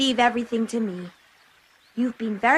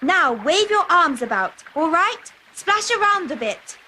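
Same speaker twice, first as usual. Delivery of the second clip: urgent hurry; 3 semitones higher than usual. Acted. Cat hurries master into river.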